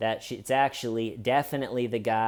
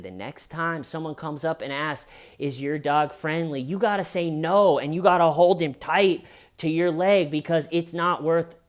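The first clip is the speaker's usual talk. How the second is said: building to a louder, higher stern lecture; lecturing; 5 semitones higher, 3 dB louder than usual. Retold or imitated. Telling the dog owner what to do next time, stern lecture. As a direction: lay down the rule, firmer as it goes. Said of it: "he took the scolding".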